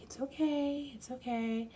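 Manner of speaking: soothing whisper. Retold or imitated. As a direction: whisper it gently to calm a frightened dog. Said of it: "they're very slow and".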